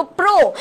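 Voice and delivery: "প্রো" with a closed o like ও; closed o sound. Shown as a demonstration. Teacher showing students the first syllable, "প্রো" with closed o. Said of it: "ও এর মতো উচ্চারণ হবে".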